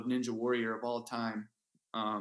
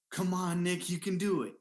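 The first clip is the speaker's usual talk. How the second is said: higher, bright mock pep talk; hammed-up cheer, pitched up; mock cheerleading; 5 semitones higher than usual. Mock girlfriend cheering him on, higher pitched. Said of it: "It wasn't like".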